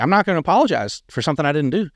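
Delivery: mildly indignant retelling; retold refusal.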